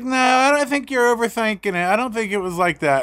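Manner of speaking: a hint of the wife, reassuring him; wife telling him he's not overthinking; wife's voice. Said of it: "And she's like".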